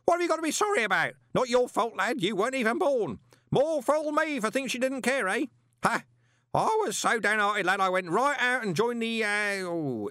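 loud, high, booming voice. A narrator's reading. Parker booming his life story at Moist. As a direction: boom it like nobody's listening. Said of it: "grasp of volume control".

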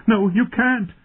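high, loud desperate refusal; loud protest. A narrator's reading. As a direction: cry out to stop him. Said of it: "louder now as she found her voice again".

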